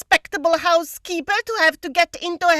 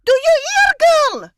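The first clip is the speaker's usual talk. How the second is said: scolding; 7 semitones higher, 4 dB louder than usual. Acted. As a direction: scold the maid sharply. Housekeeper scolding maid.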